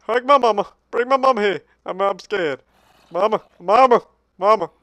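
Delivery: whimpering calls for mama; mock scared child. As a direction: play a frightened little kid wanting mother.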